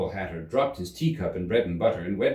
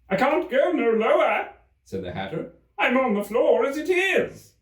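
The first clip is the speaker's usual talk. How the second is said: high, louder protest; plaintive Hatter; 5 dB louder than usual. Acted. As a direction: whine from the floor.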